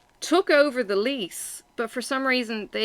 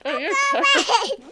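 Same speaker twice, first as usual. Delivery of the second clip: laughing; 5 dB louder than usual. Real, not acted. Laughing at stuffed cheeks.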